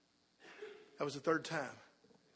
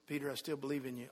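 low, hushed forgiveness; compassionate; 5 semitones lower, 4 dB quieter, faster than usual. Retold or imitated. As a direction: reassure softly, with love. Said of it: "must have been of compassion, of love, of forgiveness".

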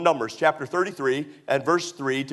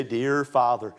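lowered prayer voice; saying grace; 5 semitones lower than usual. Acted. Parent saying grace with the kids in public, prayerful. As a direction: pray it low over the meal. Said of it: "you pray or you say grace".

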